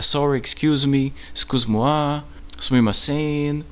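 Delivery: slow, careful apologies in several languages. Shown as a demonstration. Teacher demonstrating apologies to a stranger, slow and clear. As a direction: say each apology slowly and clearly. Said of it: "já pede desculpa".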